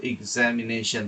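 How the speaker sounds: এক্সামিনেশন slowly, starting with 'ig'; pronounced with i. Shown as a demonstration. Teacher models how audio speakers say it, careful pronunciation. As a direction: say এক্সামিনেশন as a slow 'ig-zam-i-NAY-shun'. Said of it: "এটার উচ্চারণ ই দিয়ে করতেছি".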